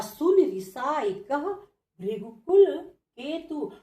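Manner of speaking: slow, measured verse reading; teacher reciting the chaupai slowly; slow verse recitation. Shown as a demonstration. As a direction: read the verse line out slowly.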